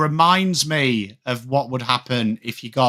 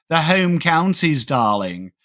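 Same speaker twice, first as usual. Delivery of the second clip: lightly mimicked posh Home Counties accent; slower than usual. Mocking ex-girlfriend's family from the Home Counties, posh accent. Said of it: "So they talked frightfully, frightfully".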